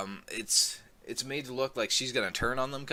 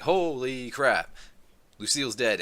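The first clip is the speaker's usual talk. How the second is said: shocked reaction; 3 semitones higher, 4 dB louder than usual. Retold or imitated. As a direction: drag it out in disbelief. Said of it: "I was like".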